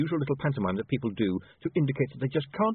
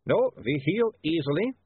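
vampire voice; 8 semitones higher, 3 dB louder than usual. Acted. Vampire speaks.

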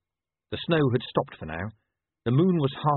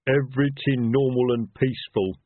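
raised, far-from-narration troll voice; troll henchman; 4 semitones higher, 4 dB louder than usual. Acted. Troll reports to the silenced inn, troll voice.

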